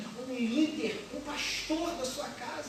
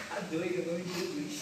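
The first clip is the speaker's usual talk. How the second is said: laughing aside; 5 semitones lower, 3 dB quieter than usual. Real, not acted.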